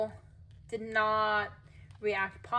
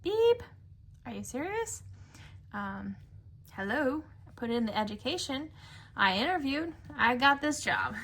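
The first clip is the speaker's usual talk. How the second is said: indignant retort; 3 semitones higher than usual. Retold or imitated. Worker retelling being told they didn't earn the position, indignant. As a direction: indignantly list what you did, lightly mocking. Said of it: "And I was like".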